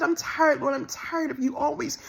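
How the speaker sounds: tired, tearful prayer to God; pleading to the Lord, worn out and hurt; weary plea. Real, not acted. Woman tells viewers how she begged God, in a tired tearful plea. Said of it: "And I'm said".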